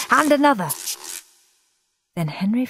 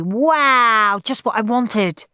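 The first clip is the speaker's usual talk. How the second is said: delighted; 4 semitones higher, 5 dB louder, slower than usual. Acted. Henry delighted.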